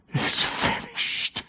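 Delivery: slow, faint whisper with a high catch; whispered last words. Acted. Preacher voicing dying Jesus on the cross, slow whisper. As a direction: let it barely come out, slowly.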